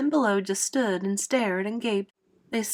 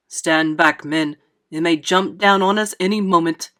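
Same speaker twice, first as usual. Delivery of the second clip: mildly yelled order, punched louder; yelled warning; 3 semitones lower, 6 dB louder than usual. A narrator's reading. Police chief warns his men of the monster, yelling. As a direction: warn the men off urgently. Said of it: "yelled the chief of police".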